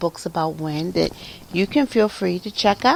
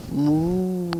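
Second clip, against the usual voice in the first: cow moo. Acted. Storyteller imitates the restored cow.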